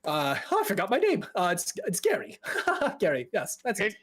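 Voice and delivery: nervous mage giggling between stumbles; flustered, hesitant, jumping high in pitch; anxious fella. Acted. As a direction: stammer and titter apologetically. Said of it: "anxious fella kind of walks up to you".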